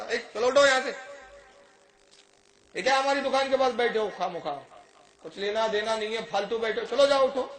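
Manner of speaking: a shopkeeper angrily shooing a man from his shop; a rough shopkeeper's loud scolding. Retold or imitated. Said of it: "بڑی بری طرح سے اس نے ڈانٹا".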